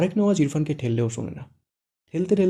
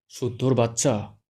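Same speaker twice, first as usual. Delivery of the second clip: angry; slower than usual. Acted. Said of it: "Irfan রেগে বলে".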